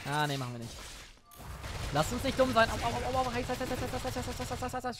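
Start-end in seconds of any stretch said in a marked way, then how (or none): 2.7-5.0 walking on hot sand. Pretend. Standing in fire in game.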